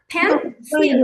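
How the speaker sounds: পেন্সিল in two beats; two syllable demo. Shown as a demonstration. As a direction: model পেন্সিল as pen-sil. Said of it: "দুই ভাগে উচ্চারণ করি না".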